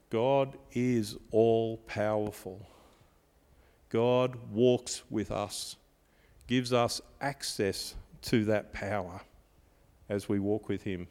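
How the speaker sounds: slow, soft, sincere statement; preacher calmly affirming God's power; solemn and slow. Real, not acted. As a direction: let each word land quietly.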